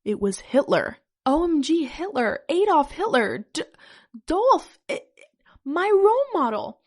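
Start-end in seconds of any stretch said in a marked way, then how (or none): 1.2-6.8 high, loud fangirl squealing; excited cry. A narrator's reading. Fan meeting their role model, hammed-up excited cry. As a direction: gush louder and much higher, hammed-up disbelief. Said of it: "I cried as I pulled him".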